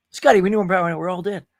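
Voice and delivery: mock-urgent starship captain, loud on the call then easing off; lightly played commander pleading with the engineer; Captain Kirk. Captain begging his engineer for power, mock-urgent. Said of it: "Captain Kirk".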